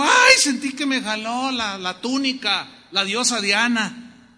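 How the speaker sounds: mock-spooked cry, easing and slowing; hammed-up fright at being tugged; mock alarm. Preacher mocking fear of Diana, mock alarm. Mock idol-fearing believer, acted.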